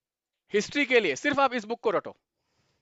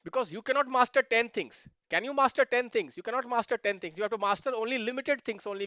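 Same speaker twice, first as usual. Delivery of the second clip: slow emphatic English; much slower than usual. Shown as a demonstration. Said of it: "slow emphatic English line".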